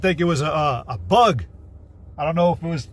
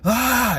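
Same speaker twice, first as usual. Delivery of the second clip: short high mock scream; imitated yell; 6 semitones higher than usual. Shown as a demonstration. Man showing how women scream, high mock yell. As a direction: demonstrate a scream without full force. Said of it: "to yell like that".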